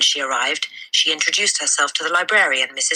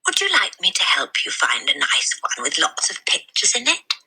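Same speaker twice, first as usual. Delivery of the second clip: kindly librarian; 3 semitones higher than usual. Acted. Librarian offers to help.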